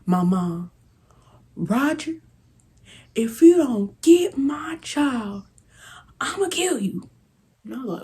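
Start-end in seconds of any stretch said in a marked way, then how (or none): 1.6-7.1 high hushed mock threat from mom; imitating mom hissing a threat at dad; mom's threat. Retelling mom threatening dad, hushed high voice.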